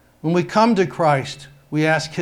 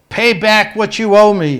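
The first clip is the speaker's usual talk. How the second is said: loud, higher angry demand; 6 semitones higher, 8 dB louder than usual. A narrator's reading. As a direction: bark the debt back at him. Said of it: "he demanded".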